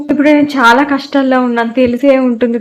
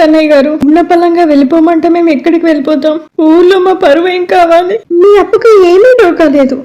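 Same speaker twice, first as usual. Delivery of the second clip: tearful, higher pleading voice; crying plea; 3 semitones higher than usual. Acted. Wife begging the creditor not to evict them, crying plea. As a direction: beg through tears. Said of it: "ఏడుస్తున్నావా?".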